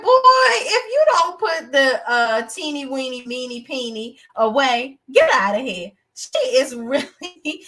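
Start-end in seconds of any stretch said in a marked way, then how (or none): 0.0-5.9 high, loud mock outburst; mock yell. Reviewer reacts to the TV scene with a high, loud mock yell. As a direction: shout it high in disbelief, half laughing. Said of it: "I was like".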